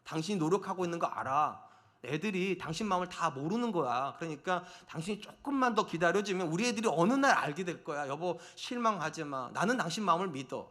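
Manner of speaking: soft, low, reassuring husband; quietly supportive, unhurried; gentle encouragement. Shown as a demonstration. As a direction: speak tenderly to comfort your spouse. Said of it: "용기를 주는 거예요".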